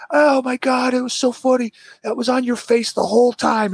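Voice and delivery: high, gleeful imitation of a friend; mocking laughter. Friend laughing at the beard, high mock glee. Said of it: "He was just sitting at the table like".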